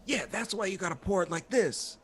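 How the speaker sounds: a light impression of a street kid; Carlos doing Wanch. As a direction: toss it off like a scrappy boy. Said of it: "my Car- impersonation of Carlos doing Wanch".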